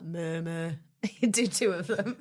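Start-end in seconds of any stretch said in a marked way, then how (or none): 0.0-0.7 double cow moo. Pretend. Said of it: "Maybe he'd be like".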